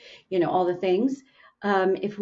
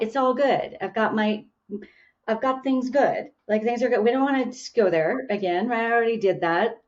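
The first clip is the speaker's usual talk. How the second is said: higher-pitched dismissive self-talk; brushing it off; 4 semitones higher than usual. Acted. Speaker voicing their own reluctance to revisit old pain, brushing it off. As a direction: insist lightly, a notch higher, that all is fine. Voicing inner avoidance of Pandora's box.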